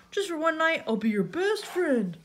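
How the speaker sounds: high, wheedling plea, slowing at the end; pleading. A narrator's reading. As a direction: beg like a hopeful pal. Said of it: "he pleaded".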